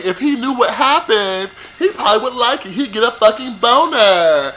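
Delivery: normal talking voice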